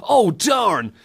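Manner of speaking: high mock melodrama; over-the-top acting. Shown as a demonstration. Co-host parodies over-the-top acting, high hammy protest. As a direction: ham up every word. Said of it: "over-the-top acting like this".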